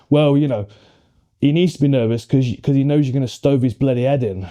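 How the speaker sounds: put-on old school Nottingham granddad, matter of fact; east midlands accent. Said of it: "like, proper Nottingham accent".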